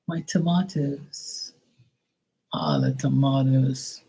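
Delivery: high, slow mock wail; mock whine. The vlogger re-mocking the neighbor, high and slow. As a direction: lightly mimic her wailing over tomatoes. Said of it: "mocking the neighbor again".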